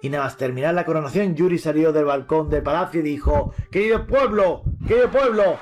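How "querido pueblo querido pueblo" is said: lightly voiced young king addressing his people; a hint of a proud new king from the balcony; royal address. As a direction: call out grandly to the crowd.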